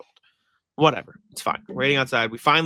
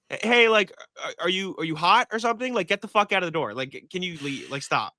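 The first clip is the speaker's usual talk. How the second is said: rude retort; 5 semitones higher than usual. Retold or imitated. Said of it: "kinda rude".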